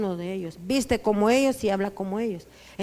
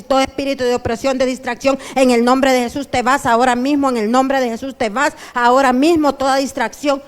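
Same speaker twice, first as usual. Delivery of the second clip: commanding prayer; 2 semitones higher, 5 dB louder than usual. Retold or imitated. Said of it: "yo empecé a decir".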